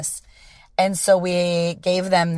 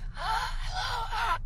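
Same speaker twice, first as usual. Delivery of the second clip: sharp high strangled gasp for air; strained gasp; 12 dB quieter than usual. Retold or imitated. Showing how her voice died that night, high strangled gasp. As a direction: gasp like the voice just gave out. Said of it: "like that".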